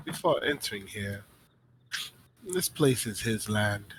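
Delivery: lightly voiced knowing skeptic, deliberate pauses; a hint of a wary character musing aloud; composed, suspicious woman. Woman tells Tanari everyone here serves the man, lightly voiced suspicion. Game master answers as the woman.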